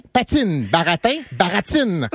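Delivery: patine and baratine with ts, baratin with plain T; Quebec T. Shown as a demonstration. Drilling the rule, patine as patsine, baratine as baratsine. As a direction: hiss the T only in patine, baratine. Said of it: "le Z revient".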